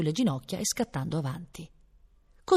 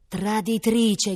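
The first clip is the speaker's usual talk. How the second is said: drawn-out, higher accusing cry; indignant cry; 4 semitones higher, 4 dB louder, much slower than usual. A narrator's reading. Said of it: "gridò".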